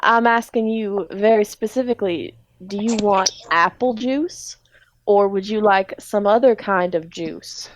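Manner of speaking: pointed, deliberate southern question; Speed's southern accent. Acted. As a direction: press the customer carefully in a southern accent. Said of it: "everyone in this grocery store have a southern accent".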